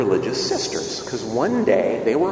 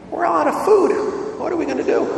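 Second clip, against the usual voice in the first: panicked cry. Retold or imitated. Panicked sister reports to Mother Teresa.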